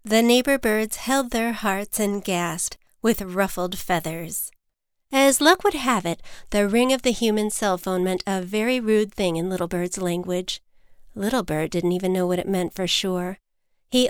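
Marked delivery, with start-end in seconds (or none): none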